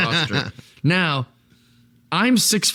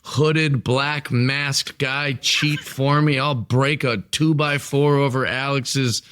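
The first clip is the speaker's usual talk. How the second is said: slow, scheming villain boasts; a hint of a gloating wrestling villain; heel promo. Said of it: "I'm the heel".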